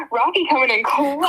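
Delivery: loud, excited cheer. Real, not acted. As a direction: hype it up. Cheering the alien's offer.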